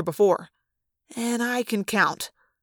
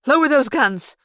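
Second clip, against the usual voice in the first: snapped; 4 semitones higher, 4 dB louder than usual. Acted. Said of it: "the woman snapped".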